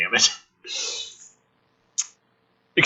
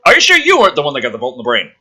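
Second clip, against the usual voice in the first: very fast, louder teasing soldier; mocking soldier; 2 semitones higher, 6 dB louder, much faster than usual. Soldier ribbing his comrade, fast loud teasing. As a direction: rattle off the jab.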